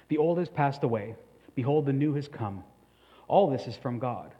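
measured, solemn reading of the passage; formal Bible reading voice; scripture reading. Acted. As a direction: read it out to the congregation with weight.

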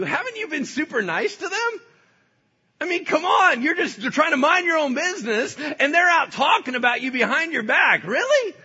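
hammed-up tempter yelling; indignant shout. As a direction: whip up the grievance, shouting. Satan stirring outrage.

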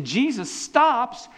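slow dramatic build as Jesus stops. A narrator's reading. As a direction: stretch it out for suspense. Dramatic pause in retelling.

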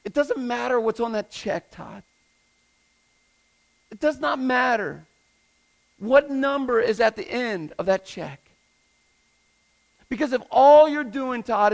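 a touch of a firm correcting voice; God's rebuke to Todd. Retold or imitated. God convicting the preacher Todd about his paycheck, firm. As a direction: speak it as God's conviction, pressing. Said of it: "And God convict me".

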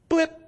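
a quick high "Blip" like a dot vanishing; blip sound. Shown as a demonstration. Preacher voicing a blip on a screen, short and high. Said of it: "my life is like a blip".

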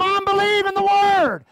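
loud, insistent proclamation of faith; shouted declaration. Pretend. Preacher coaching the church to answer mockers, shouting. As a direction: shout it down the doubters. Congregant told to answer doubters.

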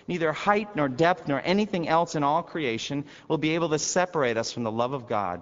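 preacher crying out the victory; triumphant preaching shout. Acted. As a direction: proclaim it at the top of the voice.

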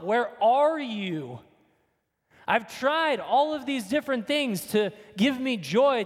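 a lightly voiced prayer of longing; pleading cry to God. Preacher voicing believers crying out for God, pleading. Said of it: "we're crying out to God".

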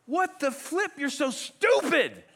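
high, put-on outburst, STUPID drawn out; hammed-up exasperated rebuke; mock exasperated scolding. What the shepherd doesn't say to sheep, mock scolding. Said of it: "the shepherd doesn't go".

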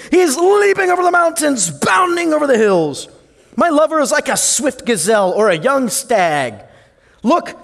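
put-on thrilled young bride announcing her lover; excited bride. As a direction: she hears him coming and can't contain it. Reading bride's excited words.

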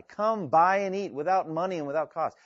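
high, pressing plea; imploring. Acted. God offering a free banquet to all, imploring. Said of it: "an imploring, uh, by God".

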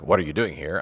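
"What are you doing here?" vorwurfsvoll, nicht erschrocken; accusatory. Shown as a demonstration. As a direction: frag es wie einen Vorwurf, nicht erschrocken. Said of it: "in an accusatory way".

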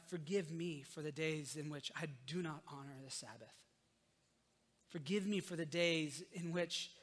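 earnest spoken prayer. Acted. Pastor leading the church in a closing prayer, earnestly. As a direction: pray it sincerely to God.

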